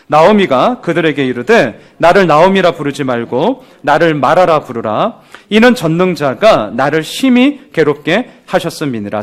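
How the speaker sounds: slow, measured Bible reading; reading Scripture aloud to the congregation, slow and solemn. Acted. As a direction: read the verse with solemn weight. Reads scripture aloud slowly.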